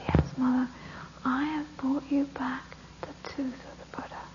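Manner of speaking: soft sheepish whisper; hushed guilty son; whispered lie. Acted. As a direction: fib under your breath. Son lies to mother.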